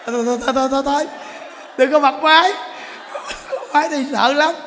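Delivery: high, loud, rapidly repeated mock plea; panicked pleading. Woman begs monk not to switch the chanting on, panicked pleading. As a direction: beg in hammed-up alarm.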